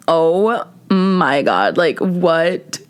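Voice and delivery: slow, low retold dismay; mortified disbelief. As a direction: draw it out in acted disbelief. Retells mortified reaction in car.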